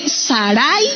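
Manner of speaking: Sarai with the stress on the second A. Shown as a demonstration. Preacher teaching the Hebrew name, Sarai stressed on the second A. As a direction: say Sarai slowly, accenting the A before the final i. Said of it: "con acento en la A".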